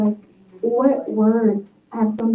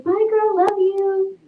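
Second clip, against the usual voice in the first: put-on much higher sing-song bye girl love you; breezy goodbye; 10 semitones higher, slower than usual. Host imitates her cheery goodbye to a friend on the phone. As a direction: toss off a bright phone sign-off. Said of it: "it's like".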